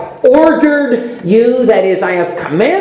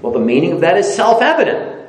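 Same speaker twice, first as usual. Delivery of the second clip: mock naive believer; 4 semitones higher than usual. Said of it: "an immature way to look at that".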